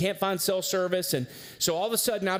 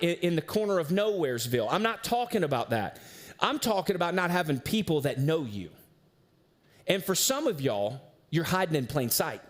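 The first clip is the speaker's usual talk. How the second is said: earnest sermon build with dramatic pauses; preaching. Acted. Pastor warning the church that isolation is dangerous, earnest preaching. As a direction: drive the point home to the congregation.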